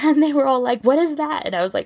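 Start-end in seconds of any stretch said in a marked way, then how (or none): 0.0-0.8 laughing through the words. Real, not acted. 0.8-1.4 high, put-on child voice asking; mock puzzled students. Students' shocked question, acted.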